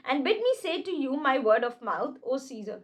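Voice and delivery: slow, grave Shakespeare reading; dramatic recitation. Acted. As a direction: declaim each word slowly. Reads Shakespeare lines slowly. (धीमा नाटकीय पाठ)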